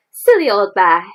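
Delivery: fond, affectionate teasing; loving. A narrator's reading. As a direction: say it with a friend's fondness. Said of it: "in such a loving voice".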